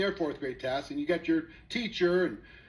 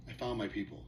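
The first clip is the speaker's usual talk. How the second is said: relieved; 9 semitones lower, 8 dB quieter than usual. Retold or imitated.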